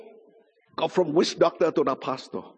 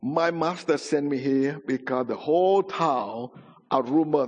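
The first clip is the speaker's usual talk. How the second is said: humble messenger; 2 semitones lower than usual. Retold or imitated. Witch doctor explains his errand to grandfather, mildly humble. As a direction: deliver the message respectfully, unhurried. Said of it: "So he very humble said".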